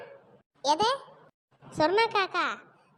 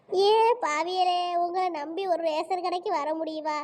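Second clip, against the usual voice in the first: tearful wailing. Acted. Woman refused juice money, tearfully wailing at friends. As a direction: wail accusingly, milking it. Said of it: "எதுக்குக்க அழுறிய?".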